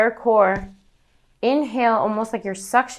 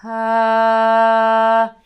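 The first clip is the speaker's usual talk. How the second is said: sighed ah; 6 dB louder than usual. Shown as a demonstration. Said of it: "you're almost sighing out a phrase".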